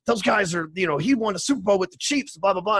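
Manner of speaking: mock breathless fan excitement; star-struck gushing. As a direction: imitate a guy freaking out over celebrities. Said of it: "he's freaking out going".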